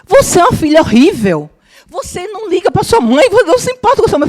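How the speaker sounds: retold furious, tearful accusation; angry crying shout. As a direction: voice climbs high and loud into a tearful yell. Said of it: "ela disse".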